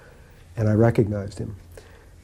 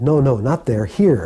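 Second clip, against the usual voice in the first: louder, emphatic imitated correction; guru insisting; 3 semitones higher, 6 dB louder than usual. Guru waving visitor behind his desk, emphatic insistence. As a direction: direct him firmly to the right spot.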